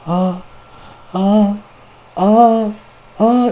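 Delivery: imitated faint, halting "uh" sounds; weak separate grunts, long gaps between; halting groans. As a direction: struggle to get a word out. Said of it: "He starts twitching. He's like".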